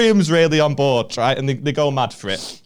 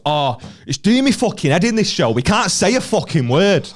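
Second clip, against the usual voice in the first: higher-pitched whinge, put on; mock exasperated complaint; 4 semitones higher than usual. Heckler complains about the show, mock exasperated. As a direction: moan like an aggrieved heckler.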